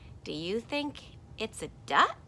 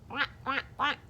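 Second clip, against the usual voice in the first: mock quacking; 7 semitones higher than usual. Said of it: "hears the duck going".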